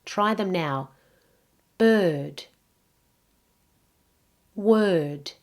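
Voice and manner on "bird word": Bird and Word with the same "er"; rhyming er vowel. Shown as a demonstration. Teacher giving words to try, Bird rhyming with Word. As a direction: say Bird, Word separately, as a rhyme. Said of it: "bird and word rhyme".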